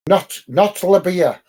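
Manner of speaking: stretched out while puzzling over the name; slow unsure reading. Real, not acted. Streamer slowly tries to read a viewer's name. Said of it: "the first word I can't get".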